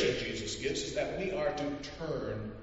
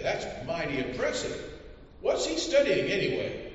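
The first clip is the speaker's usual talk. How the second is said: impressed census taker; 6 semitones higher than usual. Acted.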